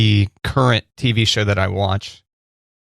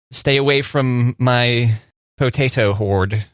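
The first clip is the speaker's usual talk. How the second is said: Irish accent; slower than usual. Shown as a demonstration. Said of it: "You can just do an Irish accent".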